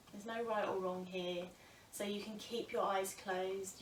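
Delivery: calm, unhurried yoga teacher with long pauses; guided breath meditation. Acted. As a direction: guide them gently into noticing the breath.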